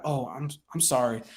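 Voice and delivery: soft, low, sympathetic apology; voice brought down. Shown as a demonstration. Coach answering a hospitalized seller, hushed sympathy. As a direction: drop your voice in sympathy. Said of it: "you would bring your voice down".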